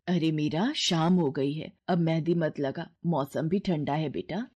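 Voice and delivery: put-on a mother fussing over her child; gentle mother. Mother voiced by narrator.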